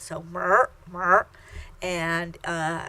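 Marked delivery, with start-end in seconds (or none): 0.3-1.3 "mer" with the vowel nasalized and an r ending; teacher repeats "mer" with a nasal er. Shown as a demonstration. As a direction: model "mer" twice, nasal and curled. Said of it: "you kind of nasalize it".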